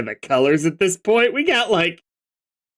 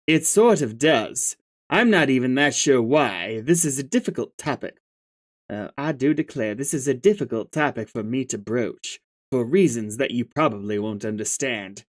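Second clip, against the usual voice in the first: lightly lowered, measured and prim; a hint of a genteel belle hedging politely; Kanaya voice; 3 semitones lower than usual. Kanaya hesitantly broaches a topic with Karkat, prim.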